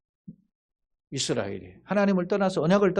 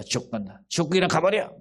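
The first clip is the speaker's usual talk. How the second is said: condemning declaration; 3 semitones higher than usual. Retold or imitated. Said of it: "이렇게 선언하는데".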